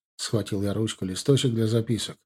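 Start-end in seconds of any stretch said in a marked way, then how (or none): none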